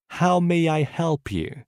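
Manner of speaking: How may I help you? said slowly, each word clear; slow it down for learners to repeat; slow repetition. Shown as a demonstration. Teacher slowly modelling the phrase for students to repeat. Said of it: "Écoutez et répétez après moi".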